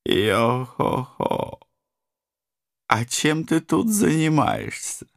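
high, slow bouncy cartoon tiger; excited Tigger voice. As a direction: whoop it out like Tigger. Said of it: "продолжала надрываться великолепная вамп". (восторженный голосок Тигры)

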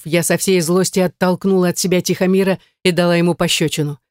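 ordinary delivery

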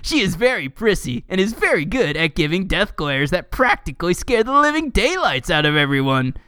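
lilting read-aloud voice; mock-dramatic article reading. Reading a fan wiki to a co-host, lightly mock-dramatic.

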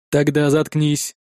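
low, very slow, detached synthetic voice; a machine weighing whether to save him; cold android voice. Acted. Android answers coldly.

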